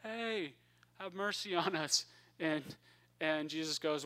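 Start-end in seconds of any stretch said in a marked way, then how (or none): 0.0-2.0 calling from afar. Retold or imitated. Ten lepers call to Jesus from far off, mild mock hail. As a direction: imitate hailing someone far off, held back. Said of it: "stand way far off and they say".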